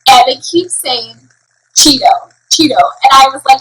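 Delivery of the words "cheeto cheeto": "Cheeto" said with a ch sound in place of keto's k; blended mispronunciation. Retold or imitated. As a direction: blend keto and cheesecake into "Cheeto". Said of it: "blending the word keto cheesecake".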